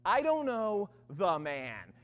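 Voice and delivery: slow, deliberate retold denial; sworn denial. Peter swearing to bystanders, slow emphatic denial. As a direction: spell out I DON'T KNOW THE MAN slowly, falling at the end. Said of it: "began to call down curses on himself and swore".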